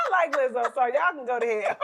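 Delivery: laughing defiant jab; giggling while telling them off. Real, not acted.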